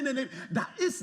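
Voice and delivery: usual speaking voice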